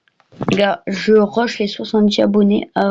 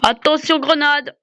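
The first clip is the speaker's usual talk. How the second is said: grenade warning yell; 6 semitones higher than usual. Real, not acted. Warns team of grenade.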